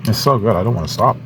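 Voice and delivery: chewing between words; mouth full. Real, not acted. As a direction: talk through a mouthful. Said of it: "talk with my mouth full because I'm eating".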